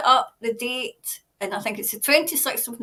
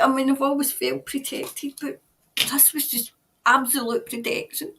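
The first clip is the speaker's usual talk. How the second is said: ordinary talk, nothing marked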